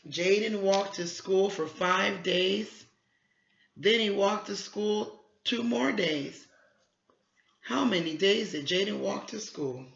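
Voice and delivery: put-on slow, clear reading to a child; slow read-aloud. Shown as a demonstration. Teacher reading the word problem to her student, slow. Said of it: "teacher reading problem aloud".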